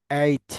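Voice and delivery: এইচ ending in an s sound; common mispronunciation. Shown as a demonstration. Teacher showing how many say it, এইচ as "eis". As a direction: say এইচ as "eis", with a hissed final s. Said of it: "এটা এইচ বলে অনেকে".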